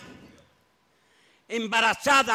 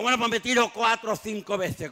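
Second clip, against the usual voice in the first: a man yelling he'll jump again and again; stubborn shout. Acted. Husband shouting back at his mocking wife, stubborn yell.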